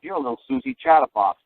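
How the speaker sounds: teasing lilt, pitched well up; mocking singsong. Teasing his lawyer friend Tom, mocking and pitched high. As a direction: needle him like a chatty kid.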